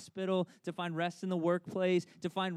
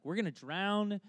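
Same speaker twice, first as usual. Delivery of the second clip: mock panic, higher pitch; freaking out; 5 semitones higher than usual. Disciples in a storm fear drowning, mock panic. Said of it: "his disciples are freaking out".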